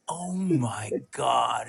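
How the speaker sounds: slow, drawn-out "oh my God"; stunned dismay. Retold or imitated. Prankster recounts walking into the house, slow stunned dismay. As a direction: stretch it out as the shock sinks in.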